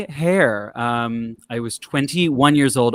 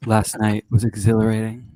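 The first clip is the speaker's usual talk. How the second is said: sultry narrator; 4 semitones lower than usual. Acted. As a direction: purr it like a seductive narrator. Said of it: "why Andy is such a sultry voice".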